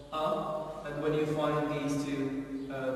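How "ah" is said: A said as a held "ah"; long vowel. Shown as a demonstration. Teacher explaining the two dots, A as long "ah". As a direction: hold A as a long "ah". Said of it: "long A".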